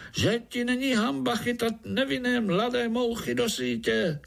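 high squeaky fly calling out. A narrator's reading. Fly groom scolds the spider, high squeaky call. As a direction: scold like a tiny indignant fly.

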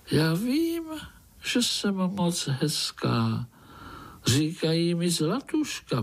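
high, slow magical fly voice; a dainty fly showing off her beauty; golden fly. Acted. Golden fly praising herself to the spider, high and slow.

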